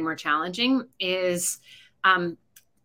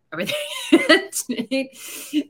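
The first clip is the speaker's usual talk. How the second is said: put-on higher, louder whining kid; pestering child; 5 dB louder, much slower than usual. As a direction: drag out the last yet. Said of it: "you're like".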